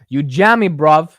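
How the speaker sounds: loud, clumsy British slang put-on; bad UK accent. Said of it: "Terrible U K accent".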